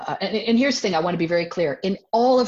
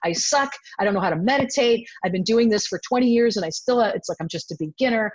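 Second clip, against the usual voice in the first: self-judging; 3 semitones higher, 3 dB louder, faster than usual. Retold or imitated. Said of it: "So I start judging myself".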